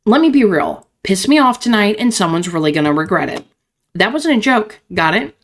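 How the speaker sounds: angry tough woman. Acted. Voices angry Belladonna character.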